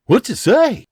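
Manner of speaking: guarded father questioning a stranger; hint of a Scottish farmer; lightly voiced Scottish farmer. William asks.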